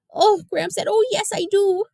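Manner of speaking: high, loud, breathless delight; overflowing with joy; thrilled. Acted. Girl answering grandfather's hug, thrilled and loud.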